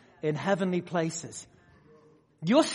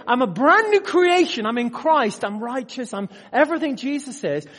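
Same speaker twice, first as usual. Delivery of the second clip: confident declaration; 4 semitones higher, 4 dB louder than usual. Retold or imitated. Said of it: "where I can legitimately say".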